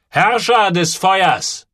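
slow, high repeat of the name; approving echo. A narrator's reading. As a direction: savour the new name. (der Barfußmann wiederholt den Namen, anerkennend)

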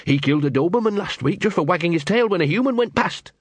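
high, awed and scared; fearful fascination. Retold or imitated. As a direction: tell it with dread and awe. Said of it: "mixture of fear and fascination".

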